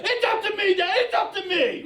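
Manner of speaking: high excited yell with a laugh; yelling the reply. Retold or imitated. Dad imitating his little boy yelling back the chant. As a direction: shout it back, thrilled. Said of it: "And he's yelling".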